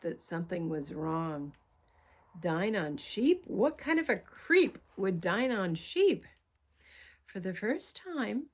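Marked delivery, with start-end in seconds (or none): 2.4-6.2 shocked disbelief. Acted. Utopia shocked.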